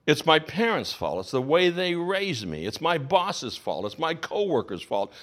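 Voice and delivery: slow, grumbling excuses; whiny excuse list. Acted. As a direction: shrug off every blame, one by one. Listing excuses as a quote.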